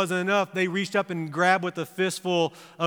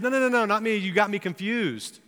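denial; 5 semitones higher than usual. Retold or imitated. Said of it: "And Peter said".

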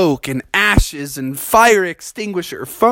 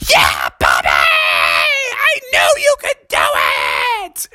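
proud parents cheer; 10 semitones lower, slower than usual. Acted. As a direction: yell proudly from the crowd.

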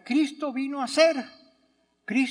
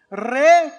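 Re punched loud and alone; stressed prefix re; 3 semitones higher, 10 dB louder than usual. Shown as a demonstration. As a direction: hit Re hard, then pause. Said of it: "hazlo otra vez". (Re acentuado y fuerte)

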